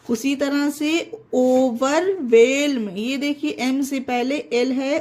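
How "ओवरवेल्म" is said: "ओवरवेल्म" said slowly, L audible before M; "ओवरवेल्म" with both L and M pronounced; sounded L. Shown as a demonstration. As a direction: stretch out "ओवरवेल्म", keeping its L. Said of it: "ओवरवेल्म पढ़ रहे हैं इसे".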